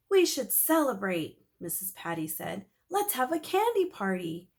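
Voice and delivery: a hint of a happy neighbor; cheerful proposal. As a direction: neighbor suggesting a party. Missus Patty celebrating.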